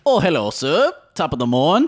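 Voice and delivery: a light put-on British accent. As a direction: play a polite English gentleman, lightly. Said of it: "do a British impression".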